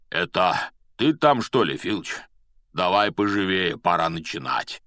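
big, booming, good-natured giant; gentle giant voice. Acted. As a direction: call out like a friendly giant. Hagrid calls from his hut.

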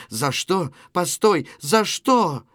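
restrained cry of protest, rising at the end. Acted. Natasha protesting from inside the house, mildly crying out. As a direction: cry out mildly, building to the last question. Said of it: "доносится крик Наташи".

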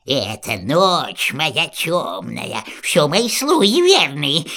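witch voice. Acted. Baba Yaga names her riders.

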